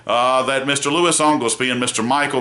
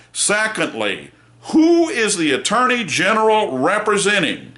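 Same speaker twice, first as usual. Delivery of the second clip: angry lawyer; 4 semitones higher than usual. Retold or imitated. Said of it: "I am angry".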